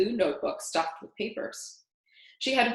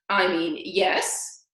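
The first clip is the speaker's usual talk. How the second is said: donkey with tonsillitis; 4 dB louder, much slower than usual. Acted. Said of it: "like a donkey with tonsillitis".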